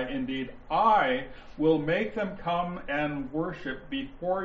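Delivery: slow, deliberate reading with "I" held; stress on I. Shown as a demonstration. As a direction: bring out "I" above the other words. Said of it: "You're going to hear me emphasize".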